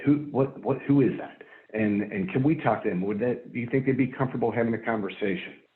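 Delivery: normal talking voice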